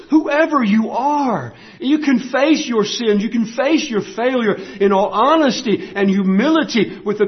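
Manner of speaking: ringing sermon cadence, key words punched; full-force preaching. Real, not acted. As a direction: exhort the whole congregation with conviction.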